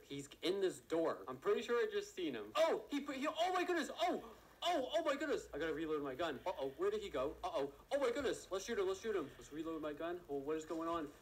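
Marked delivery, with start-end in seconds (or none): 2.6-5.5 high, loud shriek of panic; terrified yell. Real, not acted. Gunfight erupts. 7.9-8.5 high, loud shriek of alarm; panicked cry after being shot at; startled yell. Real, not acted.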